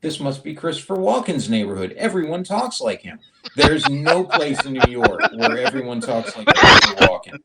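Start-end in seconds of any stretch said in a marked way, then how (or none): 0.0-3.2 higher-pitched mock realisation; imagined thought. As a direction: act out a passer-by's sudden discovery. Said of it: "walking around and thought".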